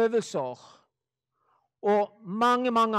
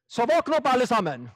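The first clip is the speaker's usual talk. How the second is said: wake-up call; 4 dB louder, faster than usual. Real, not acted. Urges listeners to open their eyes.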